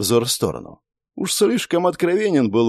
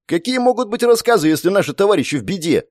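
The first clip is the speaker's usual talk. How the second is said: much higher indignant outburst; angry exclamation; 9 semitones higher than usual. A narrator's reading. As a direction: protest hotly. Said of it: "гневно воскликнул Акира". (гневно воскликнуть)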